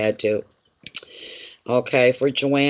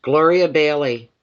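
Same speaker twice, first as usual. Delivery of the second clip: calling out; 3 semitones higher, 4 dB louder than usual. Real, not acted. Calling out next client's name.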